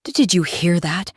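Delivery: nervous, stammered question; a touch of fearful hesitation; trembling. Acted. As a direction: stumble on the first word, trembling. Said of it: "he whispered, his voice trembling, barely audible".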